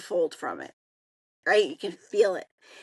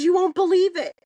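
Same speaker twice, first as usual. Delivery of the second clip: excited announcement; 5 semitones higher, 5 dB louder than usual. Retold or imitated. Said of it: "She goes".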